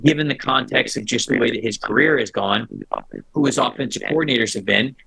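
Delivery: garbled, warbling audio like a crocodile talking; glitchy bad connection. Real, not acted. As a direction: voice breaking up over a bad call line. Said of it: "You were sounding like that singer meme".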